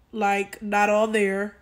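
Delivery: ordinary talk, nothing marked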